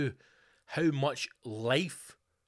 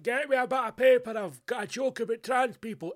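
excited outburst; 10 semitones higher, 5 dB louder than usual. Retold or imitated. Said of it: "I was like".

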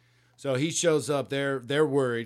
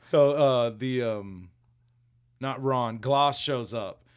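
normal talking voice

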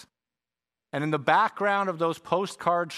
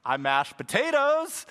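joking; 9 semitones higher than usual. Acted. Joking about the phrase.

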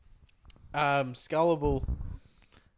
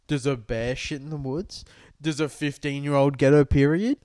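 sarcastic rhetorical question. Retold or imitated. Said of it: "It's like".

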